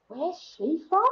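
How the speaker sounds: put-on puzzled question in a dad's Northern accent. Grandad baffled by his posh granddaughter, imitated Northern accent. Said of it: "a real Northerner as well".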